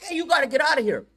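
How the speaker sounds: mock yell. Soldiers yelling, retold.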